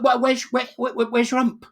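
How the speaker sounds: high, loud, stuttering amazement; astonished stammer. Acted. Friend seeing the hump has gone, stammering in astonishment. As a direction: stumble over the words in mock shock.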